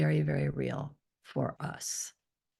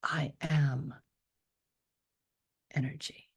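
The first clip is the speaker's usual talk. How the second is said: whispered declaration. Shown as a demonstration. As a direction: declare it under the breath. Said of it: "it's a declaration, it's not an affirmation".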